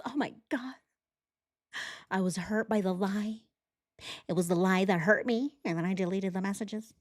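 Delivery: lightly voiced fake hurt woman, breathy and soft; mock her sob story; mocking imitation. Mocking the suspect's wounded excuse, mild fake hurt. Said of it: "Her story is".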